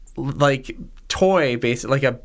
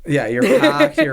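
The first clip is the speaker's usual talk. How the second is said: excited; 10 semitones higher, 6 dB louder than usual. Real, not acted. Excited about leaving town.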